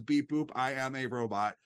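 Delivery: even machine gun syllables; robot voice. Retold or imitated. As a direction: chop it into flat robot beeps. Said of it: "a really bad robot costume and says".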